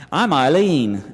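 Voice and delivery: slow, badly faked British accent with a laugh; Eileen's British accent. Introducing herself in a remembered first meeting, badly faked British accent. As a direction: attempt her British accent, drawn out and amused. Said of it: "trying to get the accent down".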